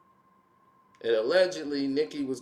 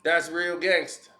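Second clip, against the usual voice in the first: sarcastic; 4 dB louder than usual. Real, not acted. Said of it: "A rapper finna battle a woman".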